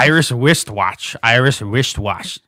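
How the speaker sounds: slow "Irish wristwatch", r slipping into w; struggling tongue twister. Real, not acted. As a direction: labor through "Irish wristwatch", still getting "wistwatch". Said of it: "that's literally me trying".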